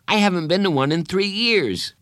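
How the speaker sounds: put-on high, worried boy's voice; anxious confession. Anxious boy confesses to friend.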